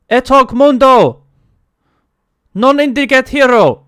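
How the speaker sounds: high, loud commanding call; booming voice. Acted. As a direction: boom it out from hiding. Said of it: "you hear a voice".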